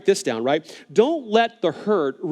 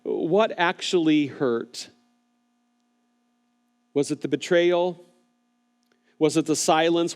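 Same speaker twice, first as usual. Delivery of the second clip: gentle pastoral questions to an online viewer; very gently; 2 semitones lower than usual. Real, not acted. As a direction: ask each question gently, leaving room to answer. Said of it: "So let me ask you very gently".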